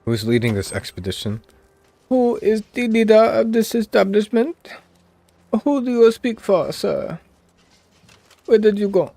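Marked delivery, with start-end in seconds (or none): 2.1-9.1 high, loud put-on African accent; hammed-up African accent, calling out; mock African accent. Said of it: "This is my African accent".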